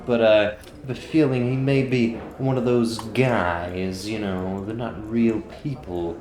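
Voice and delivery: lightly voiced informant laying out suspicions; Grodger impression. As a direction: confide a lead to the party, drawing out key phrases. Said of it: "That was your Grodger impression".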